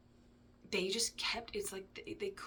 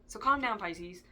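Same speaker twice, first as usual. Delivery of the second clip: teasing; 6 dB louder than usual. Real, not acted. Teasing Pisces viewers.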